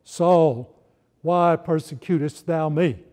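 a loud, booming divine voice calling Saul; voice from heaven. Acted. Voice from the sky calls to Saul, booming and solemn. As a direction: call down to Saul like God from the sky. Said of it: "and this voice said".

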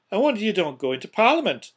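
loud, high-pitched scorn; sarcastic jibe. A narrator's reading. Scrooge mocks his nephew's speech, loud sarcasm. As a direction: hurl mock praise at him.

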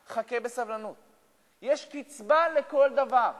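loud, high preaching at full force; fiery preaching. Acted. Rabbi urging listeners never to despair, loud preaching.

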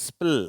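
ஸ்பில் as one joined blend; blended consonant sound. Shown as a demonstration. Teacher showing three letters said together, blended ஸ்பில். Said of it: "அப்படின்ற உச்சரிப்பு".

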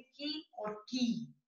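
first "की" quick, second "की" held long; short versus long. Shown as a demonstration. Teacher tells pupils the names, short then long "की". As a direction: contrast short ki and long kee in "की और की". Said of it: "छोटी की और बड़ी की नहीं बोला जाता".

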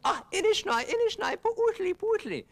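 high, loud keening wail; pitiful wailing. Acted. Blind Coyote wails for help, high keening wail. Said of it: "How come you screaming around".

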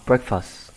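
BREAKfast with falling end; corrected model "breakfast", front-stressed; correct first-syllable stress. Shown as a demonstration. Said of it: "Đọc là".

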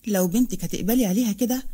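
mild sarcastic rebuke, rising questions; angry sarcasm. Acted. Farah confronts Amina over the insult, sarcastic. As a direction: confront her with scornful questions. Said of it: "بغضب وقالت بسخرية".

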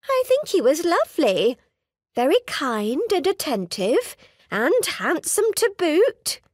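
a chatty society mother making small talk. Acted. Mother voiced again, praising suitor.

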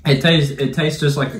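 tasting food while talking; licking her fingers. Real, not acted. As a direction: hand at mouth. Seen 0: Woman has hand at mouth, tongue out, licking fingers; no Oreo seen.

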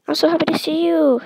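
loud, high, quick gush; happy greeting. A narrator's reading. Mother finds her daughter Tiger, overjoyed.

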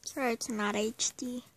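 whispered aside to himself; whispering. Real, not acted. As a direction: whisper it while fiddling with the video. Quiet aside while setting up.

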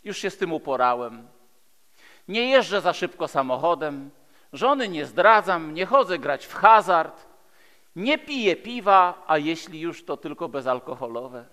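ordinary delivery

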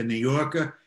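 dropped-r New York accent. Shown as a demonstration. Interviewer showing how he speaks in New York, New York accent. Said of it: "When I'm in New York".

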